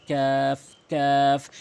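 "কাফ" with light k, just ahead of the tongue root; thin, drawn vowel in "কাফ"; forward k. Shown as a demonstration. Teacher demonstrating, light lengthened "কাফ". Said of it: "জিহ্বার গোড়া হতে একটু আগে".

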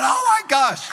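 high, loud retold amazement; astonished cry. Youth group reacting to the miracle, loud astonished cry. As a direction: exclaim it high, as if stunned. Retells stunned reaction to healing.

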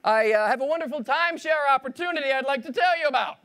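high, eager salesman voice; overly polite timeshare pitch. Acted. Stranger stopping the boss to pitch a timeshare, high and eager. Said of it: "and then you stop me, and you say".

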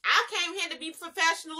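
mocking her. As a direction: laugh while mimicking her line "I came here to be professional". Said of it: "she gonna say something".

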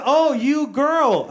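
high, drawn-out sudden realization; mock mother giving in, very slowly; imitated mom. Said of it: "And she goes".

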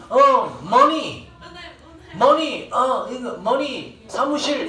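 a foreigner fumbling single words; broken Korean. Retold or imitated. Teacher mimics a lost tourist asking for the bank. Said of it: "우리나라 말로 어설프게 해".

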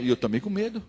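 ordinary talk

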